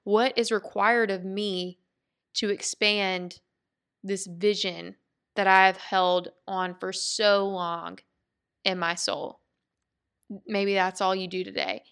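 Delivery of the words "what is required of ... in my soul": reflective question. Shown as a demonstration. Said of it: "is to ask the question".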